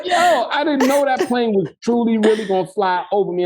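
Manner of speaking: high, disbelieving yo that settles back down; incredulous retelling. Retold or imitated. Actor telling friend about plane, high amazed disbelief. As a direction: relive the shock of the plane, laughing. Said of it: "I'm like".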